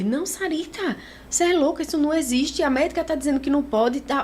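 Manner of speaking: a father voiced high and exasperated. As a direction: scold her like a flustered dad. Father scolding her.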